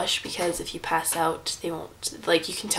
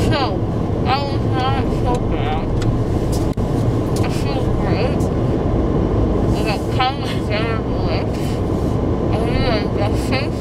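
loud, slurred post-surgery daze; groggy from anesthesia; 3 semitones higher, 7 dB louder than usual. Real, not acted. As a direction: talk through a numb mouth, dazed. Just out of anesthesia.

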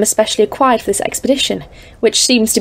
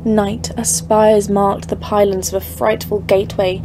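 dread-filled story narration; 4 dB quieter, slower than usual. A narrator's reading. Narrator describing the dread peaks.

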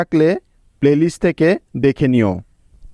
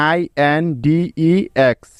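spelled letter by letter. Shown as a demonstration. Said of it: "বানানটা এখন আমরা সবাই করতে পারবো না?".

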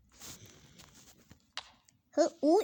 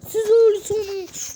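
loud threat; 4 semitones higher, 11 dB louder than usual. Acted. Threat in fight.

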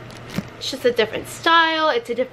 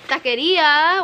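put-on Taqueria said like a white girl, tack-uh-ria; valley girl; 4 semitones higher, slower than usual. Shown as a demonstration. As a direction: Taqueria with an anglicized American vowel. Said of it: "Why did I say it like a white girl?".

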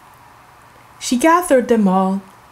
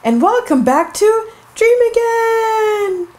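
shouted welcome; 11 semitones higher than usual. Acted. Host calling the show name to kids, shouting.

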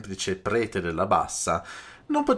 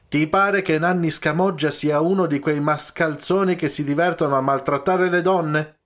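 loud, much higher indignant outburst; shouting; 7 semitones higher, 5 dB louder than usual. A narrator's reading. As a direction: bellow it, offended at the very idea. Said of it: "gridò lo Scamoggia".

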